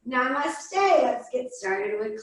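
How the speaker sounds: lightly voiced yogi, slowing down; famous yogi. Yogi at the door opening yoga class, lightly voiced. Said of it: "it's a famous yogi".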